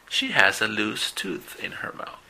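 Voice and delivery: slow, fully unvoiced whisper. Shown as a demonstration. Teacher whispers the sentence to show voiceless sounds. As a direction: breathe the sentence out with no voice at all. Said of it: "los dos son sonidos sin voz".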